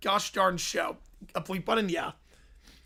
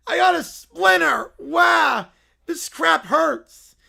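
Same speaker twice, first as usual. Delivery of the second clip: louder, yelping at a splinter; pained yelp; 4 semitones higher, 6 dB louder, slower than usual. Acted. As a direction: cry out at the splinter, then grumble. Bear hurt by a splinter.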